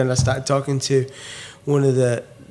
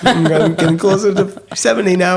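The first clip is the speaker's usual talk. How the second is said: put-on American accent, pitched up; 4 semitones higher, 4 dB louder than usual. Bandmate joking about turning a year older, American accent. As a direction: slip into a louder American accent. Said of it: "put an American accent on".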